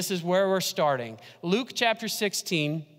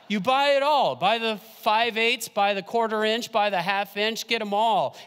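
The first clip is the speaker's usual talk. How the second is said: excited push; 3 semitones higher, 4 dB louder than usual. Acted. Excited sales-pitch advice.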